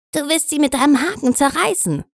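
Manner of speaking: high, sharp pirate snarl. A narrator's reading. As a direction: snarl it at the rival. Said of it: "schnarrte Mullet".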